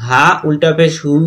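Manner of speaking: "হু" held long on a steady tone; drawn-out vowel. Shown as a demonstration. Teacher shows learners the long "হু", drawn out. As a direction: stretch the vowel of "হু". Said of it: "এখানে টেনে পড়তে হবে".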